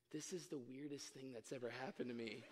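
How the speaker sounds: very soft, low, imitating a whisper; whispered confession. Stranger to the man proposing to her, in a hushed whisper. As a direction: murmur it secretly, barely projecting. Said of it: "she looked up at me and she whispered".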